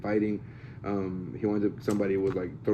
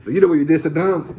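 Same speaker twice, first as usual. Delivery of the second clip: mock accusation; 7 semitones higher, 8 dB louder than usual. Acting out an accusation.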